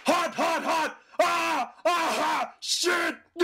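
high pained yelps; yelping in pain. Acted. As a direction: cry out as the fire burns you. Villain burned by fire.

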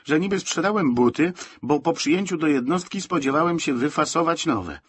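acted bitter complaint; indignant grumbling. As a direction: curse the sergeant with rising indignation. Soldier's bitter rant about sergeant.

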